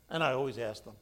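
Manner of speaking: ordinary talk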